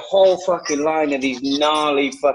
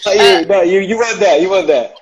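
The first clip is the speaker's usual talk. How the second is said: mock intense protest; 5 semitones higher, 8 dB louder than usual. Mock-intense war-veteran protest.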